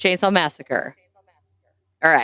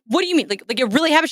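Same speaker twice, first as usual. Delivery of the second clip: high, anxious mock questioning; panicking; 6 semitones higher, much faster than usual. Teen asks sister if movie happened, high alarmed mock panic. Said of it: "My response was to panic".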